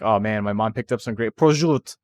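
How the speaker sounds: mock Italian accent on prosciutto. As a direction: normal American talk, then heavy Italian on "prosciutto". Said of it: "you never fucking talk like that".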